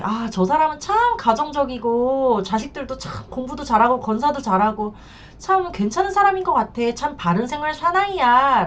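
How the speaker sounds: imitating admiring wives. Wives praising a seemingly family-minded man, imitated admiration. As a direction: voice a trusting wife's approval.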